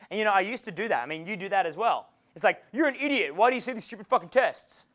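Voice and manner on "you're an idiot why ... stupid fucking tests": mock angry retort. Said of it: "arc up at the girl when you're angry".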